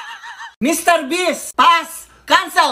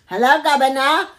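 put-on British accent. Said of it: "can you do a British accent?".

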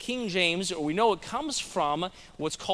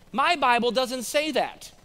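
lightly voiced lady, higher and slower; a hint of an old lady objecting, drawn out; imitated old lady; 4 semitones higher, slower than usual. Dear old lady objects in class.

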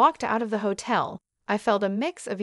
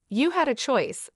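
firm, a little higher and pressed; wife's understated firm rebuke; 4 semitones higher than usual. Acted. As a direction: set him straight, no wiggle room. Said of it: "I said firmly".

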